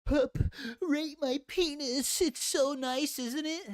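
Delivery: high mocking voice of a viewer; mocking quote of viewer. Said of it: "he was like".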